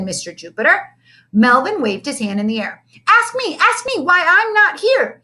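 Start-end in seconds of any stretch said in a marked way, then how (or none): 3.1-5.2 put-on high, pleading and slow, a kid begging to be picked; eager cry. A narrator's reading. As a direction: call out, desperate for attention. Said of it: "he cried".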